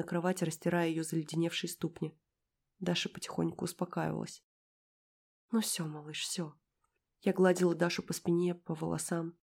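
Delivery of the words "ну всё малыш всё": совсем тихо, нежно; шепни ласково; утешение. A narrator's reading. Гладит успокоившуюся девочку. (тихо утешает малыша)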